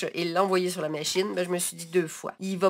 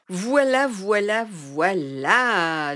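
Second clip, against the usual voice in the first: pleased voilà; 4 dB louder, much slower than usual. Real, not acted. Crafter unveiling her finished mug, proud triumphant voilà.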